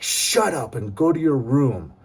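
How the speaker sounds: mock neighbor order. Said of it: "He was like".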